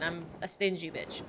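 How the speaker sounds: a confessional whisper to the chat; whispered aside. Real, not acted. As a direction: breathe it out like a guilty secret. Self-deprecating aside about money.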